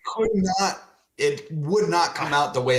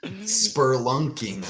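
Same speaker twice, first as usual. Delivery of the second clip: slow, softer, sour repeat of spelunking; disgusted; 3 semitones lower, 4 dB quieter, much slower than usual. Real, not acted. Repeating the hated word spelunking, slow and sour. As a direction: let the word spelunking drag out with distaste. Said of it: "it's a word I hate".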